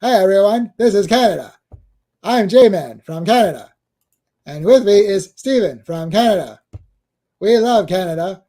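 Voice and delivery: lightly voiced cartoon Canadian; Terrence and Phillip. Host plays cartoon Canadians greeting everyone, mock-cheery presenter voice. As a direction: do a hammy cartoon introduction, each phrase swooping up then down. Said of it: "My favorite Terrence and Phillip".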